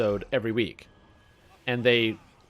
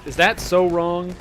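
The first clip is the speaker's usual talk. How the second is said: mock innocence; 5 semitones higher, 5 dB louder, slower than usual.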